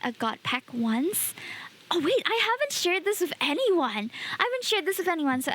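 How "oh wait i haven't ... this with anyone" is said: excited. Real, not acted. Sudden realisation, sharing a secret.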